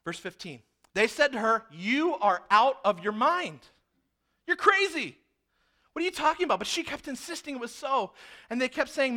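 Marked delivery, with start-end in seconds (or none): 1.7-6.6 a hammed-up scoff at the girl; mock dismissive scolding. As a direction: brush her off as mad. Church scolding the servant girl.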